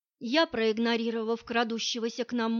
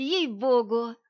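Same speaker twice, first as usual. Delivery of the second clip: ordinary talk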